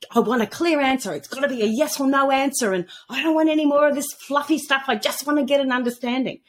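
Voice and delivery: retold impatience, insisting on a straight answer; fed-up. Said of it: "just over it. I, I'd had enough".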